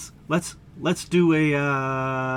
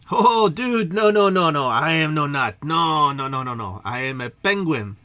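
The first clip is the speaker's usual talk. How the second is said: hammed-up penguin protest; alarmed denial; 5 dB louder than usual. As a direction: blurt out a string of protesting noes. Penguin denies being a nut.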